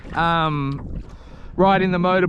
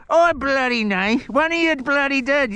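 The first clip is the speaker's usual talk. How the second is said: put-on grumpy voice; 6 semitones higher than usual. Continues put-on rant voice.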